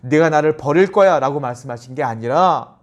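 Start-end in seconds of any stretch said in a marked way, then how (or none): 0.0-1.2 louder, accusing delivery; mock reproach, pushed out hard; reproachful. Shown as a demonstration. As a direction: rebuke someone who will betray you. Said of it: "베드로를 책망하듯이".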